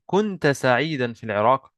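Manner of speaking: كنت سعيدا في العراق with the tune lifting at the end; statement as question. Shown as a demonstration. Teacher reading out the student's line about Iraq, as a question. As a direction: ask كنت سعيدا في العراق by a final rise alone. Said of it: "He's saying that as a question".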